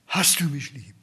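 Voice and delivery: whispered, voiceless question. Acted. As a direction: hush the Lord's gentle question. The Lord's question to his disciple.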